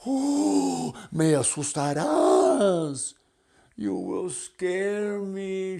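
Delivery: high, loud frightened squeal; mock fright. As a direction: shriek like a startled butterfly. Butterfly scared by pig song.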